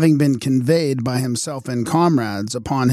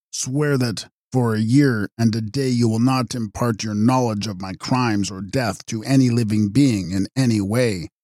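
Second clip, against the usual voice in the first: exultant dying oath. Acted. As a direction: force the oath out with a last burst. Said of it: "raising himself with exultant violence".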